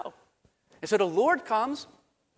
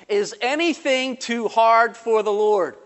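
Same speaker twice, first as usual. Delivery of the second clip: booming question; 3 semitones higher, 6 dB louder, slower than usual. Retold or imitated. The Lord's rhetorical question, voiced.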